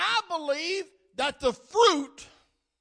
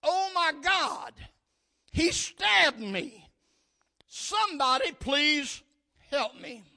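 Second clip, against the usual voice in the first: raised, higher cry for help, fading at the end; mild retold yell; 3 semitones higher than usual. Preacher retells a stabbed woman's plea, mildly yelled. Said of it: "she yelled out".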